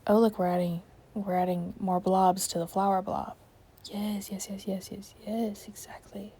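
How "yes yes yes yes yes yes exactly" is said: very soft, repeated agreement; hushed self-approval; murmuring to oneself. Real, not acted. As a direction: murmur it under your breath, absorbed in the work. Murmuring to self while painting.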